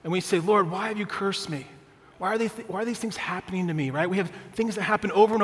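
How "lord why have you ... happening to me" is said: mildly pleading lament; understated anguished prayer; acted cry to God. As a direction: plead upward to God, a touch plaintive. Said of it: "we cry out to God".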